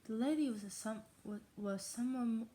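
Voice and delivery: slightly cracking voice. Real, not acted. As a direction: let the voice crack from yogurt. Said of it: "making my voice crack".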